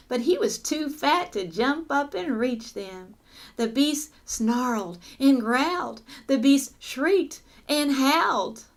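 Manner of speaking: lively, suspenseful storytelling; story read-aloud. Acted. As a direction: read it to children with punched key words. Reads story to children.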